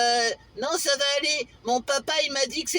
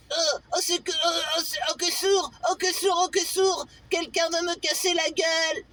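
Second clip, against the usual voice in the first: higher pitched frightened wail "oh, que sourd"; a mock scared cry, pitched up; panicked victim; 5 semitones higher than usual. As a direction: whimper like someone about to be beaten up.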